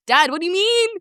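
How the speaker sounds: high-pitched, flustered protest to dad; retold squeal of embarrassment; mock dismay. Retelling shocked reply to dad.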